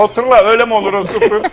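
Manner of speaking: mock-stern Muğla-accented dismissal; Muğla-accented teacher. Teacher failing the Laz pupil, mock stern in Muğla accent. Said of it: "Öğretmen Muğlalı bizim".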